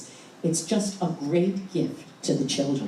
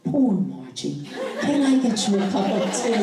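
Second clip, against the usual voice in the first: laughing while quoting; 4 semitones higher than usual. Retold or imitated. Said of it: "and he said".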